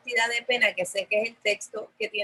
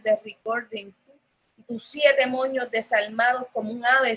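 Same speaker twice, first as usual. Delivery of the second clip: poetic reading. Real, not acted. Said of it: "quiero leerles el, el, la entrada".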